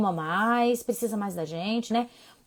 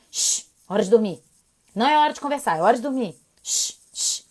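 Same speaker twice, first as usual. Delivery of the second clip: stern bedtime shush; 5 dB louder than usual. Retold or imitated. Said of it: "não é com a mesma entonação".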